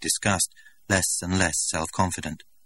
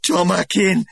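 higher and louder, affronted; outraged director; 13 semitones higher, 7 dB louder, slower than usual. A narrator's reading. Director confronting Linda before the crowd, outraged. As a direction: demand an answer, stiffly. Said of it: "began the director".

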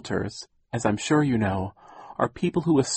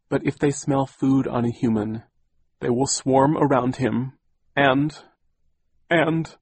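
rising higher and louder as she chokes up; near tears; 4 semitones higher, 4 dB louder than usual. Acted. Aunt choking up describing her husband's death. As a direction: voice climbing toward tears. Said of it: "tears came to Aunt Josephine's eyes".

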